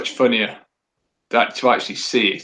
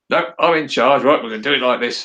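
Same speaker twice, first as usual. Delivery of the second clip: bossy woman in charge. Retold or imitated. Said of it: "that's the way she comes across".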